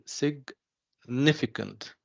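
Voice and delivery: "significant" slowly, split as sig-NIFicant; stress on second syllable. Shown as a demonstration. Teacher asking students to find the stress, slow "significant" stressing NIF. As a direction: draw out "significant", pausing before stressed NIF. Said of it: "The second syllable".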